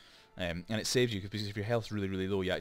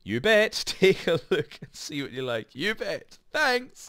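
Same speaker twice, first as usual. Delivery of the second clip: much higher and louder put-on lady voice; hammed-up lady voice; 8 semitones higher, 8 dB louder, much slower than usual. Shown as a demonstration. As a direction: squeak it out like a chirpy farm woman. Reads NPC lines in voice.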